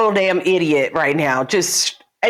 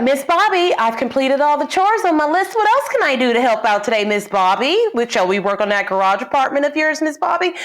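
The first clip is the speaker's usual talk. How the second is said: mock meek servant; 6 semitones higher than usual. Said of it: "I'd be like".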